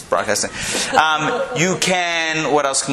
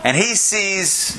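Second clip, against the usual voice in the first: slow, higher, badly faked Southern accent; terrible Tennessee accent; 4 semitones higher, much slower than usual. Storyteller attempting Tennessee for the joke, badly faked accent. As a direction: stretch it into a poor Tennessee drawl. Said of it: "this is a terrible attempt".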